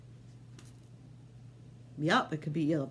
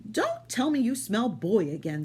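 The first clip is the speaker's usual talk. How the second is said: higher, lightly voiced wife; wife's voice; 5 semitones higher, 3 dB louder than usual. Wife dismissing the giant, lightly higher voice. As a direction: brush him off, a bit higher. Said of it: "said his wife".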